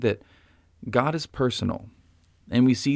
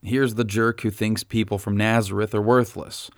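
mock scolding. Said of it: "Jesus doesn't say".

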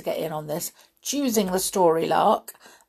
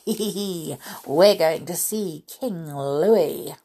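giggling. Acted. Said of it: "a monkey giggled".

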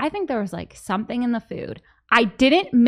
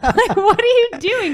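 loud, higher, through real laughter; laughing; 8 semitones higher, 6 dB louder than usual. Real, not acted. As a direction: crack up while teasing him. Teasing retold story through laughter.

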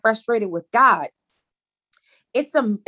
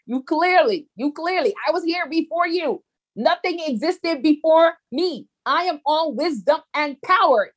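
God rebuking; 6 semitones higher than usual. Retold or imitated. God scolding the one who questions him, lofty. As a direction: speak as an almighty God scolding.

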